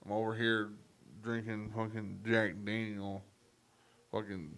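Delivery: lightly voiced drunk cowboy. Drunk alter ego chatting at a bar, lightly put-on cowboy. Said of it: "I become a cowboy".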